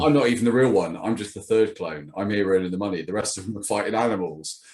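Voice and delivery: rising into a laughing shout; laughing absurd rant. Acted. Absurd clone bit, laughing.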